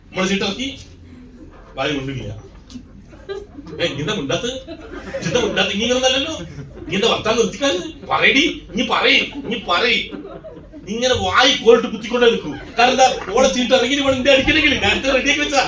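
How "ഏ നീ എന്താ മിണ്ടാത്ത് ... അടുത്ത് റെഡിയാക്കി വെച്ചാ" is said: high, loud, laughing badgering; husband pushing his wife to play her card, loud and high with laughter; impatient nagging. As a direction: pester her loudly to talk.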